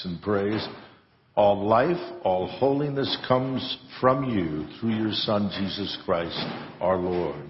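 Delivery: solemn, measured prayer voice; liturgical prayer. Acted. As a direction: recite it reverently at the altar. Priest recites Eucharistic prayer.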